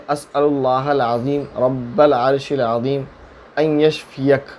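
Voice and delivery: slow, measured Arabic recitation; dua recitation. Shown as a demonstration. Mufti teaching viewers a healing dua, slow devotional recitation. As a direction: recite the prayer slowly in a chanting tone. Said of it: "وہ دعا ہے".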